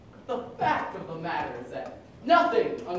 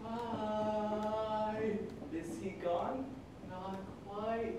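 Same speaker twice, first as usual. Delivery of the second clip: whispering; 10 dB quieter, much slower than usual. Acted. Checking inspector gone.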